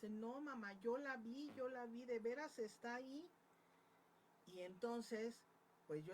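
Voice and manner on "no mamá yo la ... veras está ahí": high, loud and urgent, pleading to be believed; a child swearing she really saw it; insistent frightened girl. Retold or imitated. Little girl insists to her mother she saw the woman, high and urgent.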